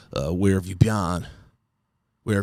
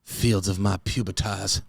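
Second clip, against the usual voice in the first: put-on old-fashioned love letter. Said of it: "I would love for them to be like".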